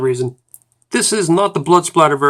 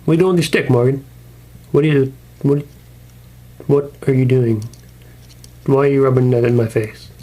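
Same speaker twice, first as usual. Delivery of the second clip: annoyed Rick. Acted. Rick annoyed at Morgan in skit.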